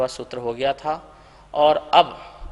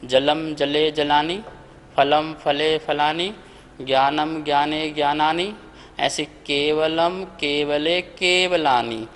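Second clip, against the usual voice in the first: slow rhythmic listing of word forms; sing-song paradigm recitation; reciting declensions. Shown as a demonstration. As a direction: chant the forms like a grammar drill. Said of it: "आपने रूप पढ़े हैं".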